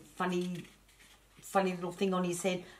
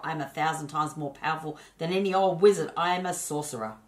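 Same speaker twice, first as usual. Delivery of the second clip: louder proud boast; haughty sorcerer; 5 dB louder than usual. Acted. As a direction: puff himself up over any old wizard. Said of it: "snapped the sorcerer".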